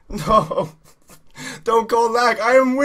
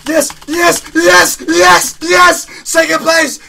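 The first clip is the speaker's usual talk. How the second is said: yes shouted high and loud, triumphant; real victory shouts; elated yelling; 8 semitones higher, 9 dB louder, much slower than usual. Real, not acted. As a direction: cheer at the top of your voice as you take the place. Winning a race, cheering.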